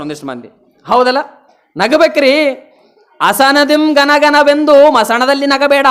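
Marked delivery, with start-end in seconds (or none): 3.2-5.9 recited verse. Retold or imitated. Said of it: "ಅಂತ ಹೇಳ್ಯಾನವ".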